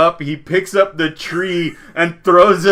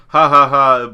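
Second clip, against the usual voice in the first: spoken ha-ha taunt, louder; mocking laugh; 6 dB louder than usual. Villagers making fun of a crawling kid, mocking laugh. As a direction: jeer with mock laughter. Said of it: "people in the village are making fun of".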